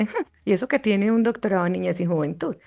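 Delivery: a lightly voiced scornful inner critic; mock her own judging inner voice, sneering a little; tyrannical inner critic. Psychologist imitating her inner critic scolding her as a mother. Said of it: "mi voz tirana ... dice".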